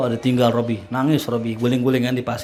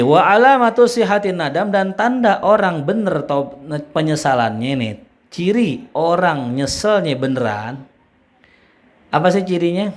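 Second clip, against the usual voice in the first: emphatic preaching; 6 semitones higher, 5 dB louder than usual. Real, not acted. Preacher raises his voice.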